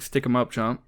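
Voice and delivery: flat monotone hero line; Tobey Maguire monotone. Retold or imitated. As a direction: deliver it totally deadpan monotone. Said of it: "very monotone voice acting from Tobey Maguire".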